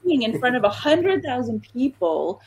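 amazed. Retold or imitated. Amazed the star makes her drink.

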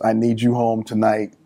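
understate it, leave no room for argument; Mama's firm way. Retold or imitated. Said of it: "there's a way Mama says".

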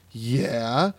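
drawn-out, rising imitated yeah; growing excitement. Dave hearing Cedarville named, imitated growing excitement. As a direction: imitate a guy perking up with recognition. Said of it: "he gets all excited".

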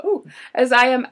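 Scottish attempt slipping into a Canadian accent, slow; a failed Scottish brogue that sounds Canadian, drawn out; accidental Canadian accent. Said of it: "but it sounds Canadian now".

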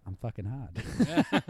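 slow, drawn-out tough-guy boast; Mark Wahlberg impression. A swaggering actor bragging in a slow boast. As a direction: stretch it out like a swaggering movie star. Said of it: "My Mark Wahlberg impression".

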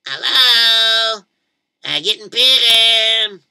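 put-on high, loud little boy calling at the door; loud timid kid. Boy knocking on the grumpy old man's door, calling loudly. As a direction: call out nervously through the door.

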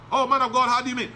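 voicing a doubting church member; a hint of a puzzled listener asking back; mock questioner. Congregant's imagined question voiced.

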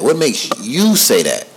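"What makes you say that?" again at a moderately slow pace. Retold or imitated. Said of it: "so I'm like".

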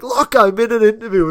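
high, loud mock exasperation; Robert. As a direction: imitate snapping at a caller before hanging up. Imitating guest before slamming phone down.

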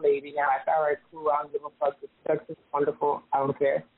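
distant earpiece sound; talking through an earpiece, off mic; far from mic. Real, not acted. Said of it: "you sound like you're far away".

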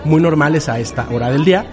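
calm, formal welcome from the cockpit; steady, reassuring pilot PA read; airline captain announcement. Shown as a demonstration. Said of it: "Va, José".

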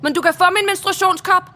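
højt i hævet toneleje; højlydt, frækt tilbud. Acted. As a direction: prut om prisen for fuld styrke. Frækt, højlydt tilbud til færgemanden. (højt og frembusende)

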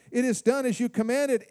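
eager, bright report to the master; excited servant. Retold or imitated. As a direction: announce it proudly, the job done. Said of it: "he says this with excitement".

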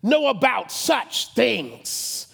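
lightly acted king's rebuke; older respected king. Older king dogging the humble ranger, lightly acted rebuke. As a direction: put down a ranger, drawing out the last words. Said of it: "older, respected king says to him".

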